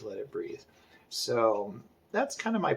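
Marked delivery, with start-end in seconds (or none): 0.0-0.6 "let it breathe" said softly, trailing off; fading mantra. Shown as a demonstration. Artist repeating his plan to himself, fading softly. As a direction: let "let it breathe" fade out under your breath.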